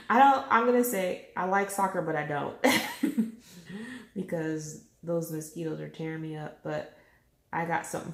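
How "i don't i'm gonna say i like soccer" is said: laughing through the words. Real, not acted. Mom laughing to viewers about mosquito bites, laughing. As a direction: giggle while admitting you're not happy.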